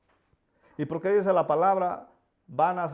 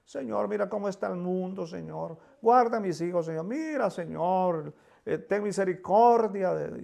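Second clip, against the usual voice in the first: imitated anxious prayer; 4 semitones higher than usual. Preacher imitates believers praying under influence, mock pleading. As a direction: imitate a believer begging for mercy. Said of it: "para que nuestra oración sea".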